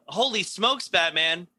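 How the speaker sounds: Robin exclaiming. Retold or imitated. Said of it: "how he reacted to everything".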